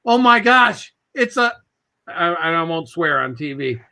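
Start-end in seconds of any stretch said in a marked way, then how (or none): 0.0-1.5 higher-pitched New York accent, imitating his wife; wife's New York accent. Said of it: "my wife in her New York accent".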